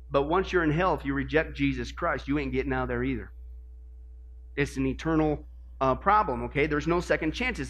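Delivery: a quiet, heavy warning about hell; grave hush. Acted. Warning about hell after heaven.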